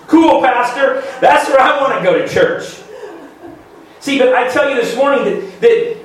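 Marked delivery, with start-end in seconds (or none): 0.1-2.8 laughing mock congregant. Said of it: "some of you would go".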